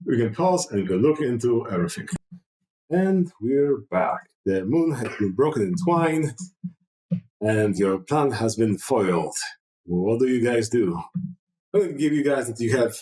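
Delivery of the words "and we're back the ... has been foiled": slow, measured scene-setting; game master narration. Acted. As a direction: recap the scene slowly, with drawn-out phrases.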